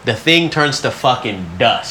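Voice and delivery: stretched out through a laugh; slow, laughing disbelief. Real, not acted. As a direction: let the laugh break through the punchline. Telling the cork disaster.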